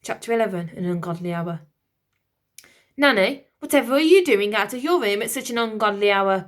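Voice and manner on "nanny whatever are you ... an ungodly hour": purring. Acted. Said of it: "purred the Lord Protector".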